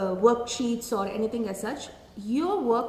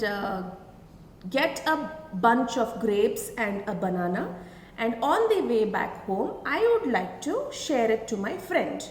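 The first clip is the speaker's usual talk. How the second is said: slow, every word separate; slow careful reading; slower than usual. Shown as a demonstration. Teacher reading to children, slow and full. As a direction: read it out slowly and fully for the class. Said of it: "it would be like this".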